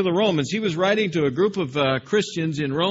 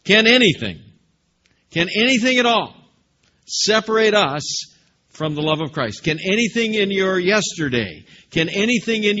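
louder and higher on anything, building; escalating the same question with force; pressing question; 4 semitones higher, 4 dB louder than usual. Acted. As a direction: push the question home. Preacher repeats Paul's question louder.

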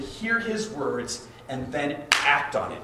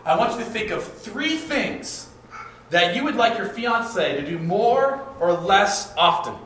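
slow instruction; 4 semitones higher than usual. Shown as a demonstration. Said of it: "and I'll say".

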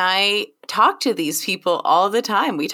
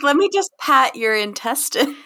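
high, louder teasing imitation; mock eager stranger; 8 semitones higher, 3 dB louder than usual. Strangers wanting to touch a pregnant belly, mock eager. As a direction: lightly mimic a pushy belly-patter.

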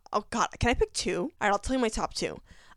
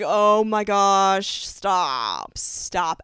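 overwhelmed; 5 dB louder, much slower than usual. Retold or imitated. Reacting to sad scene.

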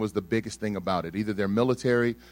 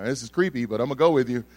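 inner protest; 4 semitones higher, 10 dB louder than usual. Retold or imitated. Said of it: "I'm like".

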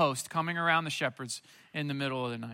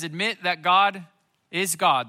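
emphatic sermon call; 6 dB louder than usual. Acted. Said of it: "preacher stresses the command".

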